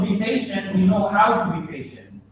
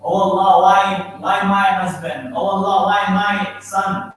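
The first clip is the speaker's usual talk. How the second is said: grieving wail; 6 dB louder than usual. Retold or imitated. Mourner wailing at a loss, a loud imitated lament. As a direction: cry out like a mourner questioning Allah. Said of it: "they say".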